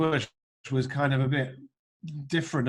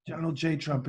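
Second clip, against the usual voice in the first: Trump, offhand. Retold or imitated. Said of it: "we have Donald Trump".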